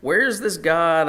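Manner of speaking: mildly jeering challenge; mocking taunt. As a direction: lightly act out a mocking question. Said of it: "they're mocking them".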